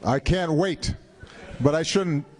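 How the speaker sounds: talking through a mouthful of cookie; mouth full. Real, not acted. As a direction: speak with your mouth full of food. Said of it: "talk with my mouth full".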